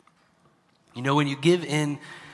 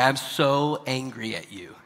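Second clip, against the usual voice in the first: slow, eyebrows-lifted mock anger; happy-eyed anger. Shown as a demonstration. Parent showing that happy eyes change the sound, lightened mock anger. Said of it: "It changes how you say something".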